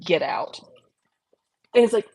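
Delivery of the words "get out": lightly voiced demon, lower pitch; little demon voice. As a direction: drop it low like a little demon. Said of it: "like, a little demon voice".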